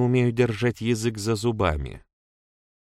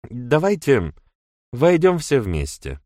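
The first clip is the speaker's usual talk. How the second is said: higher, clipped-off order; curt; 5 semitones higher, 5 dB louder than usual. A narrator's reading. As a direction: cut the words short and firm. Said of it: "отрывисто проговорила Китти". (отрывисто, чуть выше)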